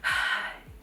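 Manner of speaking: mock weary mom sigh; exasperated sigh. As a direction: let out a patient sigh. Exasperated mother's reaction retold.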